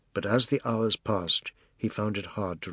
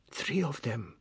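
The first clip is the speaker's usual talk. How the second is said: whispered; 6 dB quieter than usual. Acted. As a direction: breathe it so the men outside can't hear. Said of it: "she whispered".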